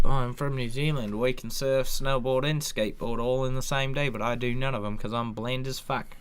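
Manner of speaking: light Kiwi accent impression; mock a bland New Zealander. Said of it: "That was a pretty good New Zealand accent".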